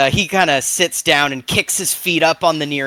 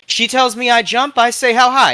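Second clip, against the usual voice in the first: high, eager yes-man voice; eager lackey; 8 semitones higher, 4 dB louder than usual. Retold or imitated. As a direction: play the obedient lackey. Boss orders, he obeys eagerly.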